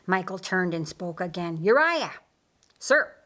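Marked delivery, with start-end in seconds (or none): 1.6-2.1 firm call. Acted. Michael calls Uriah. 2.8-3.1 crisp military reply. Acted. Uriah answers his commander.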